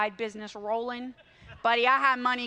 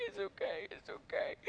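soothing husband; 8 semitones higher, 10 dB quieter than usual. Retold or imitated. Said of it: "Randy's like".

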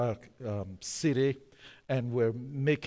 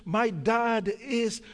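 high shrill-ish mock indignant voice, much higher; indignant lady; 8 semitones higher than usual. Wife threatens passengers about her police chief father, mocking high voice. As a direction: play the outraged wife threatening with her dad. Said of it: "because she's saying".

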